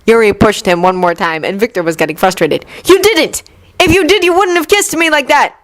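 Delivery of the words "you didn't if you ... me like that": high, raised hurt voice; angry accusation. Acted. Yuri accuses Victor over the kiss, high and angry. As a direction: hurl it at him.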